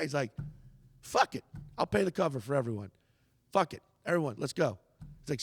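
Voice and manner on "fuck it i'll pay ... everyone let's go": hyped-up. Retold or imitated. Chappelle hyping the crowd.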